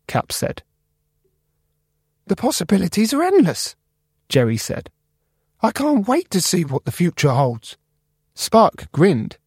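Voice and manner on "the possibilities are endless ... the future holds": very high, squeaky, eager mouse; Jerry the mouse. Acted. Computer mouse Jerry greeting the new guy, high and squeaky. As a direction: squeak it out friendly.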